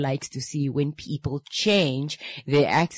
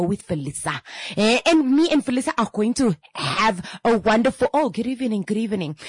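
chatty diner; 5 semitones higher than usual. Retold or imitated. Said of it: "so the conversation goes like".

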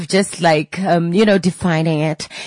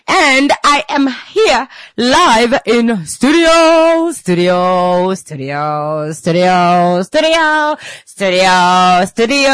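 slow echoing studio, bouncing up and down; drawn-out echo; much slower than usual. Pretend. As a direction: play at a studio echo effect. Radio host echoing studio playfully.

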